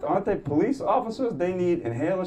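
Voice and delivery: high, disbelieving questions; can't believe it; incredulous. Retold or imitated. Comic asks the nurse, high and incredulous. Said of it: "I'm like".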